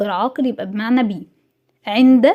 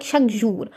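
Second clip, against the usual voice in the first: "شاك جور" joined with no pause; run together without a gap; 3 dB quieter than usual. Shown as a demonstration. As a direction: say "شاك جور" as one attached unit. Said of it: "يعني ايه لازق فيها".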